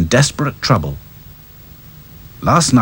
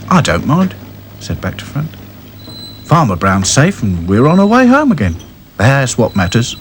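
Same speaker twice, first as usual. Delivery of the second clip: content doll; 2 semitones higher than usual. Acted. Doll brushing off the medal, content. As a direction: shrug it off kindly. Back to Front replies.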